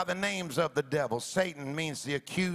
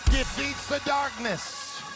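preaching at full force; 3 semitones higher than usual. Acted. Preaching climax over music.

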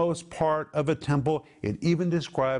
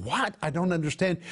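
bewildered exclamation; 3 semitones higher than usual. Acted. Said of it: "is to be taken as an exclamation".

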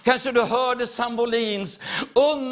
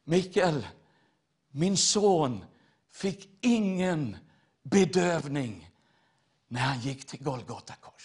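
inner voice of God; 8 semitones lower, 5 dB quieter than usual. Retold or imitated. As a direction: let it come low and hushed, like a voice from within. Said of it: "hörde jag som en röst på insidan som sa". (låg, stilla inre röst)

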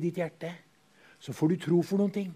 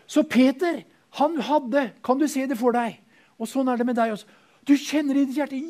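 much higher and louder, ecstatic; ecstatic preaching; 10 semitones higher, 9 dB louder than usual. Acted. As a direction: swept up in joyful faith. Preacher acting ecstatic faith.

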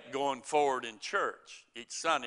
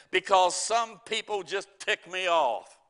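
booming voice of God; 5 semitones higher, 5 dB louder than usual. Retold or imitated. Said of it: "a booming voice said".

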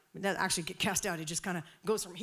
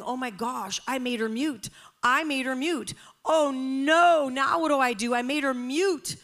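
acted fear; 6 semitones higher, 8 dB louder than usual. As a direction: panic building to high, loud wail. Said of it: "I am literally, like, afraid".

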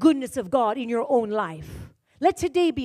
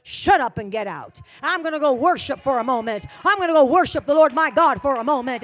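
commanding chaos; 6 dB louder than usual. Shown as a demonstration. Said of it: "move away and say".

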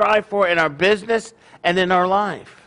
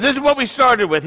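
higher, emphatic fatherly explanation; mock lecturing; 6 semitones higher than usual. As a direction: drive the lesson home to a son. Joke father explains profit.

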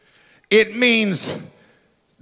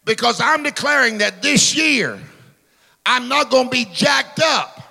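full-force preaching; 3 semitones higher than usual. Real, not acted. Pastor declaring over his church, preaching at full force.

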